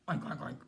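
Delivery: pig oinking. Acted. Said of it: "And Mister Pig said".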